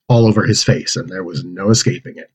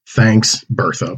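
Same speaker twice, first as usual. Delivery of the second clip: sarcastic; much slower than usual. Acted. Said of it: "Bode said sarcastically".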